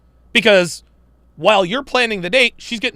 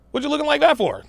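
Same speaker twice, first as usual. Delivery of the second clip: pitched up, playful; mock-indignant high tease; teasing; 8 semitones higher, faster than usual. Real, not acted. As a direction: tease her with a high sing-song question. Teasing the co-host, repeated higher.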